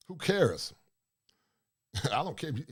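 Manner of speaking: normal talking voice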